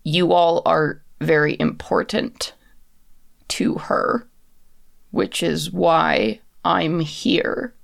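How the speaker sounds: slow, deliberate phrases with heavy pauses; guarded puppet messenger. Acted. Telling the player they matter to her mistress, guarded and slow. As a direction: weigh out each phrase as if constrained. Game master voices the captive messenger.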